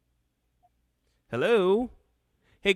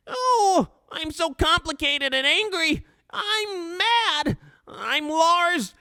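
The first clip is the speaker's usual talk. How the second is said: high whiny brat, wailing complaints; Lars impression; 11 semitones higher than usual. Host mocks Lars afraid of a party, high whiny impression. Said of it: "you guys like my Lars impression?".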